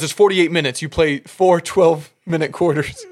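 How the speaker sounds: a fed-up coach laying it out word by word; annoyed coach. Retold or imitated. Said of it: "he's, like, getting pissed off".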